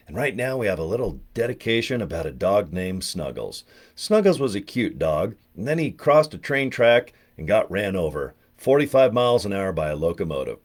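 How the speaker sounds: a hint of a smooth radio DJ; Casey Kasem dedication. DJ introducing a dog dedication, lightly smooth. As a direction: read the dedication like a countdown host. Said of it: "listening to American Top forty".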